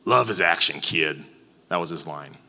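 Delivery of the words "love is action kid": a light gruff Appalachian drawl for grandpa; hint of an old Appalachian coach's drawl. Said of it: "and I'll do the accent".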